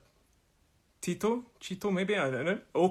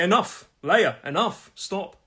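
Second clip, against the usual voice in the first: higher, firm command to a dog; mock telling-off; 4 semitones higher, 4 dB louder, slower than usual. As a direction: scold the dog briefly, for show. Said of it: "She'll think I'm telling her off".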